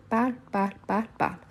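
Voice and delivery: "parle" said as one syllable closing on L; final L sound. Shown as a demonstration. Teacher repeating the conjugated forms, "parle" ending on L. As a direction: end each "parle" on the L, endings silent. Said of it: "comme si je prononce le L à la fin".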